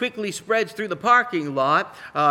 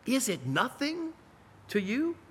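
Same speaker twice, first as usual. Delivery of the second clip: sorrowful plea; 8 semitones higher, 6 dB quieter than usual. Pretend. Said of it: "in the words of Lamentations".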